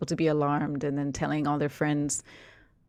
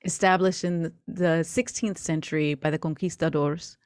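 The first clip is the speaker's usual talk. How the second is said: story narration. Acted. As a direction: paint the scene for the players. GM narrates scene setting.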